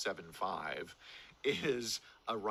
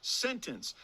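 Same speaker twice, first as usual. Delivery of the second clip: amazed emphasis; 12 semitones higher, slower than usual. Real, not acted.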